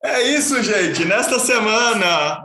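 laughing it off. Real, not acted. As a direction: laugh through the words. Host laughing after phone fall.

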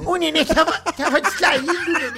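squeaky praising a dog. Acted. Teasing friend as a baby.

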